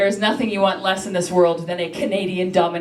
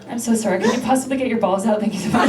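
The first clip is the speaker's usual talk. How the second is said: meek, polite request in his ear; apologetic dominatrix; faster than usual. Acted. Canadian dominatrix apologising in a banker's ear, meek and polite. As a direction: ask very politely, trailing into thanks. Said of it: "I'd get right up to his ear".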